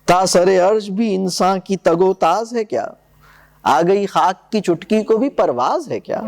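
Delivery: reading Iqbal's poem aloud to the class; poem recitation. Acted. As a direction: recite the couplets with weight.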